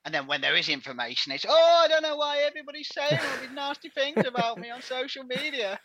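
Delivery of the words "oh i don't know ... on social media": high, whiny mock chairman; chairman impression. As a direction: put on the chairman's wounded voice. Mocking chairman's complaint.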